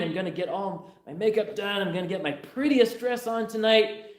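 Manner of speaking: a giddy daughter plotting, lightly voiced; scheming daughter. Daughter telling her dad her wild plan, lightly voiced and eager. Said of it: "He said".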